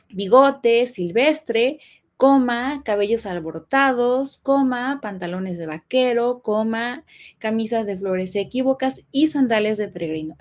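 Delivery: each item read slowly, with a pause and a rise before every coma; slow list reading. Shown as a demonstration. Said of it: "va a comenzar a enumerar".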